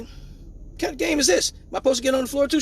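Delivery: put-on high, childlike confusion; confused kid voice. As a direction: play the baffled little kid. Acting out confused kid self.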